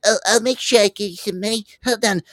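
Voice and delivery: high, fast fake-polite voice; mock the guy with a chirpy high promise; mock sweet promise. To the coach, a high mock-polite stalling voice. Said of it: "I'm not gonna sit there and be like".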